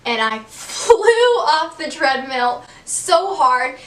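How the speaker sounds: can't hold the giggle while telling it; laughing. Real, not acted. Laughing at own treadmill fall.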